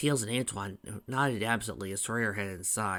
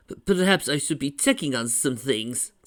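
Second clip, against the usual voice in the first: put-on nervous, louder French-accented voice; French accent, stammering; 4 semitones higher, 6 dB louder than usual. A narrator's reading. Anxious groom excuses himself, nervous French accent. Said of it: "his French accent returning for a force".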